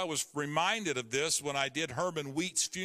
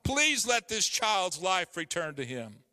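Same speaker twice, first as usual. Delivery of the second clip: slow, raised pleading prayer; crying out; 4 semitones higher than usual. Acted. Elijah pleading aloud over the child's body. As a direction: beg God aloud for the child. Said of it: "cried out to the Lord".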